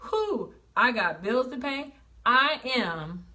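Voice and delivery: breezy, relieved whew over the bills; grateful relief. Shown as a demonstration. The speaker answers the complainers with grateful relief. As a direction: turn the complaint into thanks. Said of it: "And you know what I say?".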